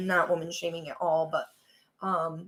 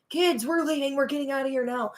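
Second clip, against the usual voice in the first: mildly panicked dad, pitched up; retold freak-out; 5 semitones higher than usual. Dad waking sleeping kids over a leak, mock panic. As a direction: imitate a dad urgently rousing his kids. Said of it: "he's freaking out".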